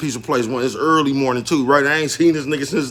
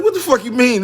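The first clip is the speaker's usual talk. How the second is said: laughing disbelief; 9 semitones higher than usual. Retold or imitated. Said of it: "I'm like".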